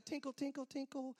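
soft, dainty "tinkle" sounds; tinkly music imitation. Little girls coming down to harp music, soft tinkling imitation. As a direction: mimic delicate harp notes lightly. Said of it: "it's a little tinkle music".

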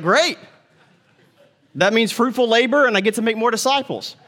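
upbeat mock enthusiasm; chirpy delight. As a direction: cheerfully welcome bad news. Paul cheerfully unfazed.

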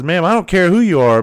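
retold exasperated warning; imitated firm protest. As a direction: act out a worker standing his ground loudly. Retold worker's firm reply in quarrel.

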